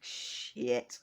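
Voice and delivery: voiceless, drawn-out curse; whispered reaction, acted out; hushed stunned curse.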